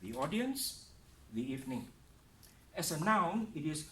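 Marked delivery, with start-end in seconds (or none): 0.0-1.9 "The" said as "thee" in "The audience, the evening"; "thee" before vowels. Shown as a demonstration. Teacher showing "the" before vowel sounds, said thee. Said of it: "the becomes the".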